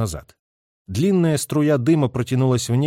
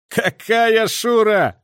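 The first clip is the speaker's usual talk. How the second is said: slow, high and loud laughing retort; guffawing; 10 semitones higher, 5 dB louder, much slower than usual. A narrator's reading. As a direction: laugh it out, stretching the words. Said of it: "захохотал майор".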